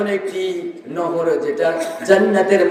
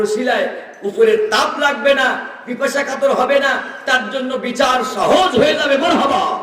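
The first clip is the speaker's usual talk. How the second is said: high sermon build to a cheer; rousing preaching; 7 semitones higher than usual. Real, not acted. Preacher promising an easy judgment, high rousing preaching. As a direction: press on high toward the crowd's response.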